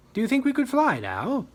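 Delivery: high, loud urgent question; anxious rider. Acted. Hughie asking the dragon to fly as Germans charge, high urgent. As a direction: press for a quick escape.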